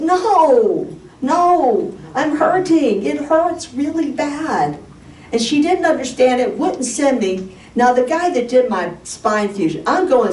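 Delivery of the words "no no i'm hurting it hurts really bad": high, drawn-out mock wail; crying complaint. Patient crying to doctor who offers antidepressants, wailing protest. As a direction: act out a pleading, tearful protest, stretched at the end. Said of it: "because I was crying".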